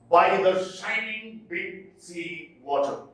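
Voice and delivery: By the shining big sea water read with the beat marked; metrical reading. Shown as a demonstration. Teacher reading a line to show its feet, stress marked. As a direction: recite it marking the meter. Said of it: "the last foot is croaking".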